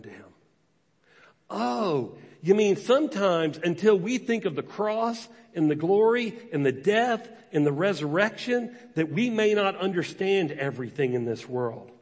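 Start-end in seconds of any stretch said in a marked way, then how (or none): 1.5-11.9 mock realization. Voicing a listener's realization.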